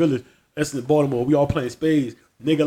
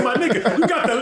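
raised-pitch indignant retelling; mock exasperation; 6 semitones higher than usual. Friend arguing about a barber, mock exasperated. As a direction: imitate a worked-up friend through laughter. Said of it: "Doc got so mad".

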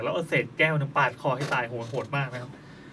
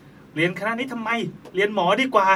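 imitating mom; 5 semitones higher than usual. Mother scolding in retold dream. (เลียนเสียงแม่บ่นแบบไม่จริงจัง)

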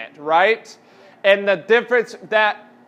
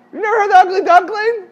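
mock disbelief; 9 semitones higher, 6 dB louder, faster than usual. Students never heard it.

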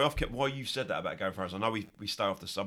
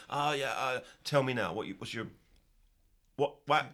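muttering, dithering pastiche. Retold or imitated. Mimicking how the host fumbles the segment intro, muttering and dithering. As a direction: imitate a co-host fumbling for words. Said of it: "you, uh, mutter and fuck about".

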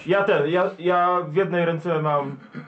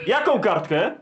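asked through a laugh; 3 semitones higher, slower than usual. Real, not acted. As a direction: tease him while laughing. Teasing about the note. (pytanie ze śmiechem)

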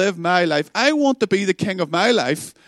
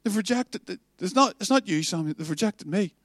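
soft, hurt repetition, much quieter; broken-hearted; 6 dB quieter than usual. Acted. Preacher repeating God's words to Samuel, soft and hurt. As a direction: say it like it breaks you. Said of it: "hear the brokenness in the heart of God".

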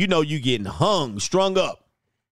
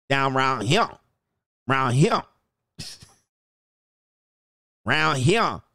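hammed-up Georgia judge; mock Southern judge. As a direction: lord it over him like a bigoted small-town judge. Voices racist Southern judge.

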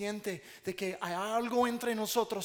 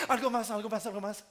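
laughing eager offer; faster than usual. Retold or imitated. Over-eager husband, laughing.

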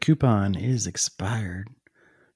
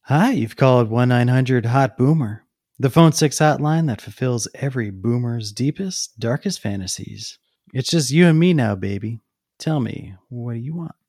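sultry hotline voice; 4 dB louder than usual. Acted. Phone sex hotline operator voice.

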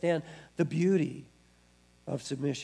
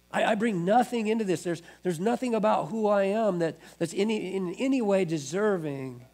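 higher, insistent admission; earnest acted confession; 5 semitones higher than usual. Believer coming empty-handed to God, earnest confession. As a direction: press it with raised pitch.

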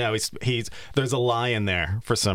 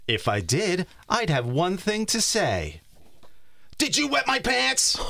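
Ruben voice; 10 semitones higher than usual. Acted. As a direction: interrogate in a high squeak. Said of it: "So this is Ruben".

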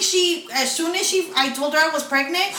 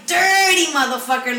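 furious curse; 4 semitones higher, 5 dB louder than usual. Retold or imitated. Retold furious reaction.

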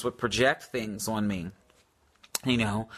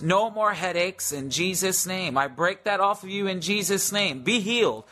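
lightly raised commanding prayer voice; healing prayer; 3 semitones higher than usual. Acted. Praying healing over the viewers, in a lightly raised, commanding prayer voice.

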